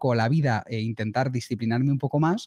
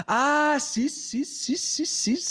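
laughing; 13 semitones higher, much slower than usual. Real, not acted. Caught out, laughing.

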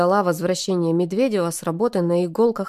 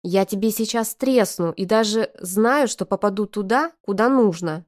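hissing; 2 semitones higher than usual. Acted. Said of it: "зашипела на Юрку".

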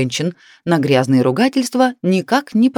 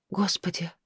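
breathless whispered "Господи"; 2 semitones higher, 12 dB quieter than usual. A narrator's reading. Wife fearing the cat survived, whispered. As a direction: whisper it in dread.

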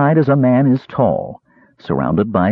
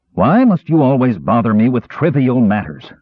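a touch of an angry outburst; understated snap at his wife; exploding. Acted. Lord snapping at his wife, mildly angry outburst. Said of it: "the lord exploded".

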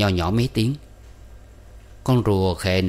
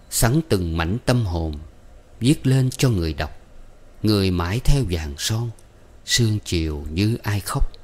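softly intoned bitter verse. A narrator's reading. Man murmuring his own bitter verses to himself, lightly intoned. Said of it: "ngâm nho nhỏ những câu thơ chua xót".

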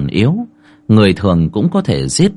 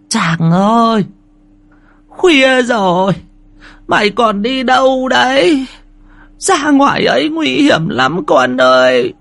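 put-on high, slow, worried old woman's voice; a frail grandmother calling her grandson anxiously; slower than usual. (giọng bà cụ già lo lắng, cao và chậm)

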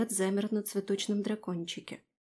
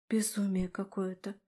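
under one's breath; 2 semitones lower, 7 dB quieter than usual. A narrator's reading. Heroine to herself over the madness, under her breath. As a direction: say it softly, half-voiced. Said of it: "вполголоса проговорила я".

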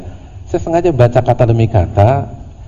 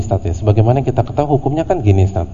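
know-it-all student; faster than usual. Retold or imitated. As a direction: rattle it off like you know better. Mocking a know-it-all asker. (murid sok tahu yang cepat dan menggurui)

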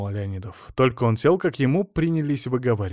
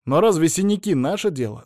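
imploring question, mildly raised; pleading; 6 semitones higher, 5 dB louder than usual. A narrator's reading. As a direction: plead with the boss. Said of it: "взмолился Алексей".

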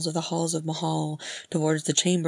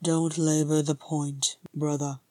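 snorted. Acted. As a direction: wave the brother off drily. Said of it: "Thorin snorted".

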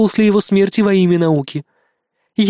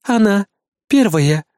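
proud; slower than usual. Acted. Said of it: "с гордостью заявила девочка".

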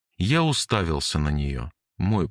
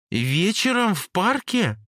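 high, slow disbelieving question; can't believe what he said; incredulous Jane; 13 semitones higher than usual. Acted. Jane doubts Cory's story, incredulous.

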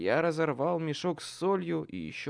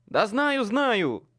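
loud, high impatient yell; exasperated shout; 8 semitones higher, 9 dB louder, much slower than usual. A narrator's reading. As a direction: snap back in a rush. Exasperated reply under pressure.

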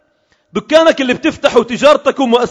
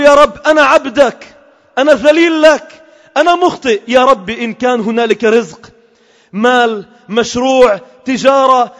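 pleading prayer. Retold or imitated. Voicing a pleading supplication.

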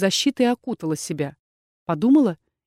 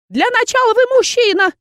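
high, louder, lecturing aunt; aunt reminding; 5 dB louder than usual. A narrator's reading. Aunt lecturing the inquisitor on manners, high and loud. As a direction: remind him sternly in a high old voice. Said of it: "напомнила тётушка".

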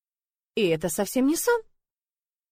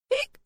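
1 hiccup. A narrator's reading. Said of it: "икнула я".

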